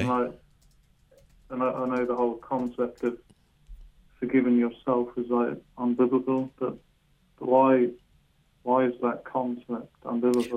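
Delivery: muffled, words hard to make out. Real, not acted. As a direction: speak through a muffled mic. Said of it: "it's a little muffled for me".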